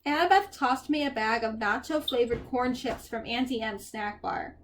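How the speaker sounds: measured audiobook-style reading; story narration. A narrator's reading. Reader tells a dream to listeners, story narration.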